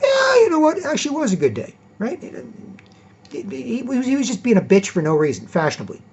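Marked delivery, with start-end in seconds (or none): 0.0-1.7 high, teary-sounding mock admission; grudging admission. Coworker finally admitting his day was good. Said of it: "He goes".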